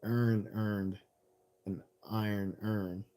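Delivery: imitating Baltimore, "Aaron" collapsed to "earn"; demonstrated Baltimore pronunciation, slow; Baltimore accent. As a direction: mimic a Baltimore accent, words merging into "urn". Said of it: "talking about the Baltimore accent".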